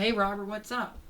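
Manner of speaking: high-pitched character hello; friendly cartoon greeting. Character greeting Robert at the mall, high friendly hello.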